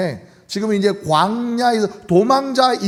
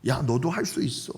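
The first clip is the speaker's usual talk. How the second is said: ad slogan imitation; 6 semitones lower, 6 dB quieter than usual. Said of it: "어느 광고처럼".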